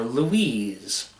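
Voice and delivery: usual speaking voice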